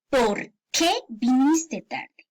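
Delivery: slow POR... QUÉ with stress on QUÉ; drawn-out question, "por qué" in two words; separated words. Shown as a demonstration. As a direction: leave a gap in "por qué", then finish the question. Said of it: "Es la pregunta".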